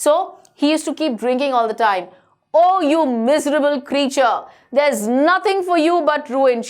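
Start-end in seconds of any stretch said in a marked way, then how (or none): 2.6-6.7 retold telling-off, understated; mild mock shout. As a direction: imitate a scolding cook, only slightly raised. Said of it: "She used to shout at him".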